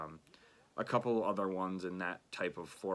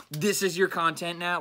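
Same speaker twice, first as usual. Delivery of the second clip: mocking commenter; 6 semitones higher, 3 dB louder than usual. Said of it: "I've gotten so many fucking comments like that".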